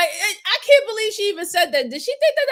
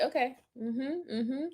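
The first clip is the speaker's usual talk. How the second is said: mocking imitation; 4 semitones lower, 10 dB quieter than usual. Mocking the quiet suspect.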